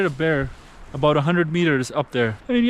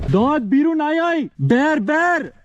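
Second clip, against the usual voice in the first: high, loud alarmed cry; 10 semitones higher, 4 dB louder, slower than usual. Real, not acted. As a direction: blurt it out in alarm. Spots grizzly in front of car.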